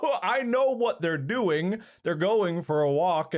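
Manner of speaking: high-pitched mock dismay; dog's anxious thoughts. Owner voicing the dog's worry, mock distress. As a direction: voice a worried pet, drawn out. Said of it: "she feels like".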